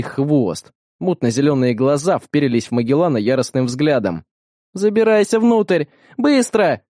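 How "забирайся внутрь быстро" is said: higher, urgent command; urgent order. A narrator's reading. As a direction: bark the order to climb in fast. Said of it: "приказала Бета". (срочный приказ, выше и громче)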